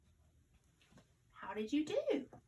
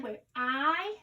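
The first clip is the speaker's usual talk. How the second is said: slow repeated sentence; 2 semitones higher, much slower than usual. Shown as a demonstration. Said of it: "we said".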